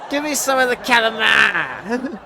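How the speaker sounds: hammed-up mom correcting the waiter; mock mom scolding. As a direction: lecture him like a smug mother. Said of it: "And then she's like".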